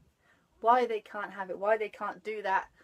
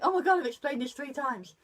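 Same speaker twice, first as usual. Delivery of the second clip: fed-up inner groan, louder and higher; exasperated thought; 5 semitones higher, 8 dB louder than usual. Retold or imitated. Mum thinking after explaining a third time, exasperated. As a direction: sigh it out, at the end of your patience. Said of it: "I think".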